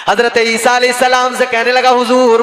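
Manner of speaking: loud, ringing sermon storytelling; full-voiced preacher narration; preaching. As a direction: preach the tale out to the crowd.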